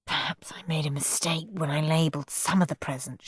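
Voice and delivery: whispered aside; muttered. Acted. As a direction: murmur it so the kids don't hear. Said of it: "she muttered to Mum".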